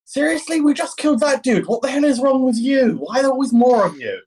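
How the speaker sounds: high, exasperated in-character rant; exasperated ranger. Acted. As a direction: rant at the endless enemies. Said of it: "I'm like".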